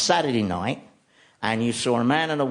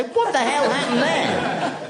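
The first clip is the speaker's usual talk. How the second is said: startled bear; 13 semitones higher than usual. Pretend. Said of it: "as if to say".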